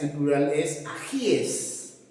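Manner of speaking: ajíes said slowly and deliberately; slow model of ajíes; careful pronunciation. Shown as a demonstration. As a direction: lay out ajíes syllable by syllable. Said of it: "No suena, ¿no?".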